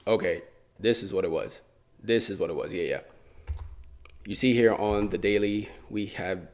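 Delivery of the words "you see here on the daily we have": stretched-out, deliberate phrasing; slow, drawn-out lead-in to a point; oddly drawn-out delivery. Real, not acted. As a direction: linger oddly on the words. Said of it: "why did I say it like that".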